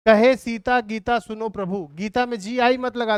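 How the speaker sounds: कहे Sita called out loud; mnemonic called out. Shown as a demonstration. Teacher calling out the mnemonic start to the class, loud. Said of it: "बोलते हैं".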